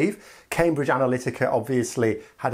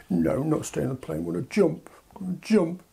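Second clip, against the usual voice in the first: put-on whiny child; 3 semitones higher than usual. UK as child demanding to jump, whiny plea. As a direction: whine it like a stubborn kid.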